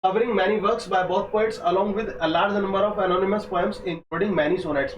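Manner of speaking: very slow, careful textbook reading; slow dictation reading. Acted. Teacher dictating exam notes slowly to students. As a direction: lay each phrase down for students to copy.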